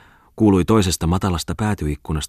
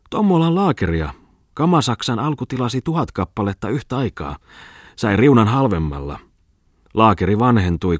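exclaiming; 4 semitones higher than usual. Acted. Bungman mocking the gentlemen's medals, high excited exclaim. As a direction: crow it out like a jester's speech. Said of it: "Bungman huudahti".

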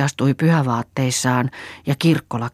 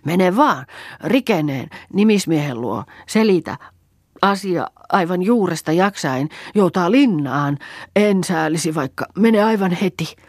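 put-on high, louder urgent old woman; angry command; 6 semitones higher, 4 dB louder than usual. A narrator's reading. Old woman ordering Pentti to go now, high angry command. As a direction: drive him off to the sheriff.

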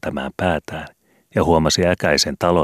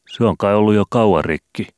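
put-on confident boy; 5 semitones higher, 4 dB louder than usual. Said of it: "lisäsi Vili varmana asiastaan".

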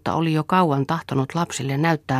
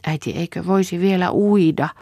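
put-on child pleading; 5 semitones higher than usual. A narrator's reading. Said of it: "pyysi Pia".

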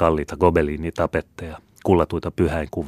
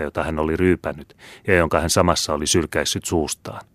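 usual speaking voice

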